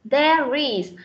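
"there is" run together through the R; joined model of "there is"; linked sounds. Shown as a demonstration. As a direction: carry the R of "there" into "is". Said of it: "Cái âm R này nối với âm is".

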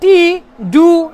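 slow, loud American T and D; American accent. Retold or imitated. Teacher showing sounds Americans favour, American accent. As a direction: drag out American-style consonants. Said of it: "এগুলোর উচ্চারণ তারা বেশি করে".

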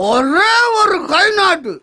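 slow, drawn-out bragging; drunken boast. Acted. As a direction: stretch each word out with relish. Drunk man boasting of collecting the money.

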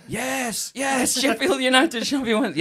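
high-pitched, dodgy mock Thai accent; badly faked Thai accent. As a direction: imitate keen Thai locals in a bad accent. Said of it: "that's not a Thai accent".

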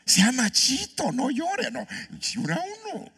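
very high-pitched teasing voice; mock scolding. Mocking men told not to cry.

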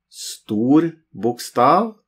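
Stor bokstav said slowly, bokstav stressed with a rising tune; slow spoken example. Shown as a demonstration. Teacher to learners, saying the phrase slowly. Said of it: "It's like a capital letter".

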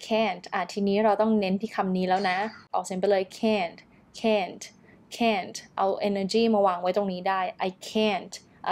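"can't" given firm, full weight; stressed can't. Shown as a demonstration. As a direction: put the energy on "can't". (เน้น can't ให้เต็มเสียง)

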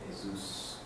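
"Jesus" with a long hissing s; drawn-out s like a snake. Shown as a demonstration. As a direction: stretch the s in "Jesus". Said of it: "they draw the S's".

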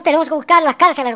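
ordinary talk

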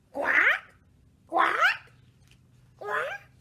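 questioning quacks, each lifting upward; duck quacking. Acted. Duck going into the doghouse, rising quacks dying down.

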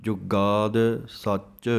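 ਜੁਗਾਦ held a little tight, slowly; slow, firm ਜੁਗਾਦ ਸੱਚ. Shown as a demonstration. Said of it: "ਜੁਗਾਦ ਨੂੰ ਵੀ ਥੋੜ੍ਹਾ ਜਿਹਾ ਕੱਸ ਕੇ". (ਜੁਗਾਦ ਥੋੜ੍ਹਾ ਕੱਸ ਕੇ)

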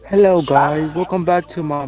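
bright upbeat channel intro; YouTuber intro voice. Pretend. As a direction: greet viewers like a YouTuber. Mock YouTuber intro greeting.

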